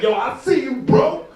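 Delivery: high, loud excited hype; hyped greeting. Retold or imitated. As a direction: greet him like a long-lost brother. Greeting a black guy in Paris.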